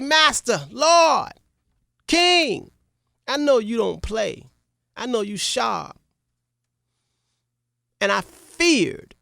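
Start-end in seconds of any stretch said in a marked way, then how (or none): 0.0-6.0 pleading servant. Acted. Servant pleads before the king.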